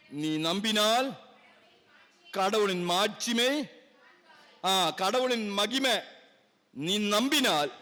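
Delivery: slow, measured verse reading; scripture declamation. Real, not acted. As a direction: declaim the verse phrase by phrase, drawn out. (வேத வசனத்தை நிதானமாக முழங்குதல்)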